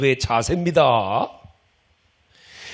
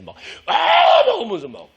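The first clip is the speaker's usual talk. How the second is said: mock threatening shout; 13 semitones higher, 6 dB louder, faster than usual. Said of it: "때릴 것처럼 대드는 사람".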